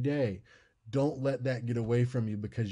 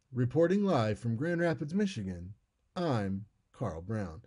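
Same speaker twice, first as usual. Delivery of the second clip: news sign-off. Shown as a demonstration. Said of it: "Instead, it would be".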